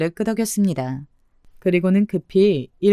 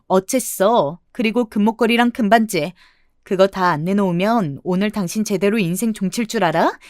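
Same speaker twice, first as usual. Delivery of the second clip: scornful telling-off, only mildly raised; mild acted shout. Daughter-in-law to unmasked swindler, mildly angry shout. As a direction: confront him with controlled anger. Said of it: "시원하게 소리를 질러주었습니다".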